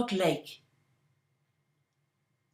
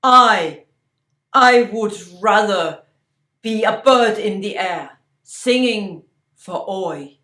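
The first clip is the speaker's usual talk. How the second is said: loud, pleading cry, pitched up; 12 dB louder than usual. Acted. Yalasid cries out to her mother. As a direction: cry it out in desperate longing. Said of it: "she cried".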